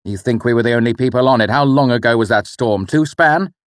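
irritated rant. Acted. The father complaining to his son about the blocked King's Road, exasperated.

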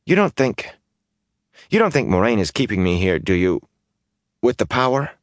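suddenly worried suspicion; anxious young man. Acted. Mat's voice, worried.

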